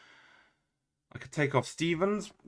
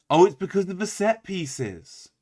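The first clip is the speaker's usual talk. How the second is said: sudden realisation; 6 semitones higher, 6 dB louder, slower than usual. Real, not acted. Sudden realisation about set pieces.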